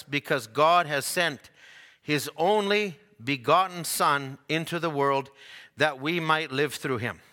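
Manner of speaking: measured, solemn Bible reading; solemn King James reading voice; scripture reading. Acted. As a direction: read the verses out with reverence. Scripture reading before sermon.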